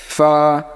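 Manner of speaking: ফা with a long airy f; lip-to-teeth fa. Shown as a demonstration. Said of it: "উপরের দাঁতের সঙ্গে লাগায়া". (নিচের ঠোঁট দাঁতে লাগিয়ে ফা)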